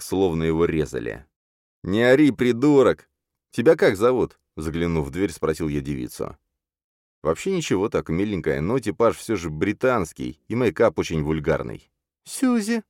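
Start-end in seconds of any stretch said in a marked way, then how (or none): 1.8-4.4 a louder, higher snap at him; telling off. Acted. Hero yelling at screaming Murphy, a loud sharp order. 12.2-12.8 put-on a much higher, timid girl's voice. Captive girl telling her name, a high timid voice.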